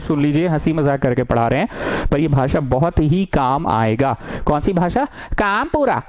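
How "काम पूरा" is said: higher, swooping singsong on each half; drilled catchphrase. Shown as a demonstration. Teacher drilling the rule into students, in exaggerated singsong. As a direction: chant the rule in two big falling swoops.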